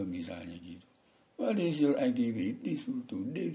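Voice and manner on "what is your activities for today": put-on high Madurese-accented English, dropping at the tag; imitated Madurese English. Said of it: "orang kayak Madura juga boleh".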